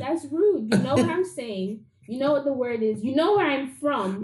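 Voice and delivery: mildly indignant, half in fun; playful heated protest; a little heated. Real, not acted. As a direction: get a bit worked up retelling a slight. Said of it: "got me a little bit heated".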